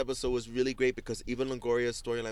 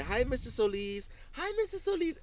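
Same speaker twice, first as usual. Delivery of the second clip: high sing-song hi, much higher; mock cheery neighbours waving; sing-song neighbor greeting; 12 semitones higher than usual.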